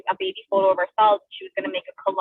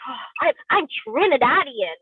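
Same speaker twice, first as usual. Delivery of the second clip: retold proud retort; 3 semitones higher, slower than usual. Child self proudly correcting the bully.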